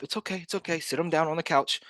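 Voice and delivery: lightly acted reassurance; mock soothing. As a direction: gently settle someone stunned. Acting out soothing a dazed seller.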